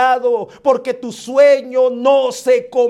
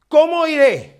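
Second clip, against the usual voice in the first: higher, pleading cry of doubt; fearful prophet; 5 semitones higher than usual. Acted. The prophet afraid of Saul, pleading higher. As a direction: plead with God out of fear. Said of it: "Tengo miedo, tengo inseguridad".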